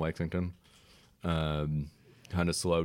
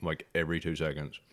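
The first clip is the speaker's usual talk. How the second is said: mouth full. Real, not acted. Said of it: "And I'm chewing while I'm talking".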